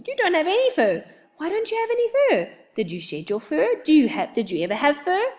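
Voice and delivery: high, loud rapid-fire chatter; hyper chatter. A narrator's reading. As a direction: bounce through every question breathlessly. Hyper rabbit rapid questions.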